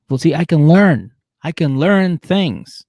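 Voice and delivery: high, loud hammed-up plea; mock pleading boyfriend. Derek pleading with Monique at the rink, hammed-up. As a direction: beg her back, proud and pleading. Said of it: "he's like".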